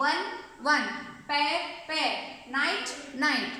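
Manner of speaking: each of "one, one, pair, pair, night, night" as a matched sound pair; identical pronunciation. Shown as a demonstration. Teacher shows children that homophones sound alike, identical pronunciation of each pair. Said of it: "pronunciation is same".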